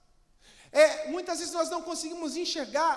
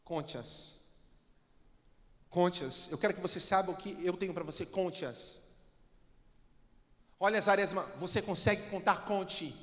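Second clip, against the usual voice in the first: God voice; 10 semitones lower, 6 dB quieter than usual. Acted. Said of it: "Ele fala assim".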